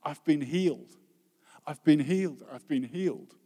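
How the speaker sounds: loud, joyful cry of healing, fading on the last; retold scream. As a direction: call it out from the back of the church. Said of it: "someone screamed out from the back".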